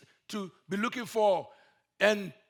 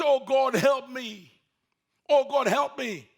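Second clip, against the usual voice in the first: crying out; 3 semitones higher, 3 dB louder than usual. Acted. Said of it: "So he started crying out".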